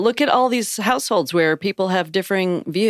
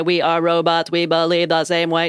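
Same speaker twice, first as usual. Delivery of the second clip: flat mechanical robot voice; 3 semitones lower than usual. Pretend. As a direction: speak like a monotone robot. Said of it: "Did you like my robot voice".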